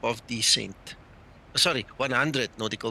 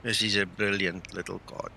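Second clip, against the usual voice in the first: smiling voice; 2 semitones lower than usual. Real, not acted. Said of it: "You hear the smile in his voice".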